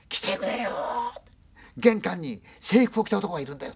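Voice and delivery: high frantic cry for help; panicked scream about the man in uniform; grandmother screaming. Retold or imitated. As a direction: shout it out in terror. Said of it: "そのおばあちゃん叫んだんですよ".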